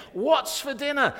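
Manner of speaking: high, loud shout right behind her; husband shouting right behind his wife, high and loud. Retold or imitated. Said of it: "he shouts as loud as he can".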